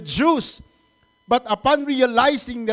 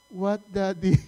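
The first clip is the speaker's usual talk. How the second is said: "What, Daddy?" as a respectful model answer; polite corrected reply. Shown as a demonstration. Father telling his son how to respond, polite corrected reply.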